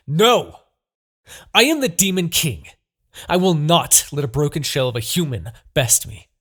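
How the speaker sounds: high, loud proud declaration; defiant shout. Acted. Demon king refusing to be beaten by a broken human. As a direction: roar your title to crush doubt.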